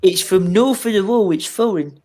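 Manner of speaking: mock Scottish accent. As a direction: put on a hammy Scottish accent. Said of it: "my Scottish accent is amazing".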